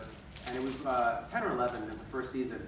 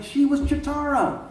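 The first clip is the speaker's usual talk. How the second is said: amused quote; 10 semitones higher, 11 dB louder, much slower than usual. Retold or imitated. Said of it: "He's like".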